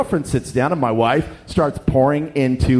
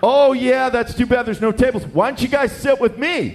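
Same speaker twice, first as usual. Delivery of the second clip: high, bouncy imitation of a chipper stranger; perky; 8 semitones higher than usual. Young businessman inviting strangers to his table, acted perky. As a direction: chirp it with over-friendly pep. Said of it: "just all perky-like".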